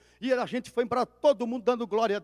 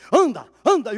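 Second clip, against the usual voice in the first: ordem em voz alta; 3 semitones higher, 10 dB louder than usual. Retold or imitated. Pastor ordenando o menino andar.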